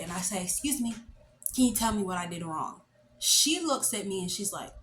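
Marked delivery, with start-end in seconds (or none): 0.4-2.8 composed polite request. Retold or imitated. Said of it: "I decide to gather myself a bit".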